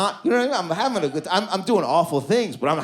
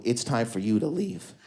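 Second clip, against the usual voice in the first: offhand dismissal; 3 semitones lower, 4 dB quieter than usual. Retold or imitated. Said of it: "doing something at their table like this".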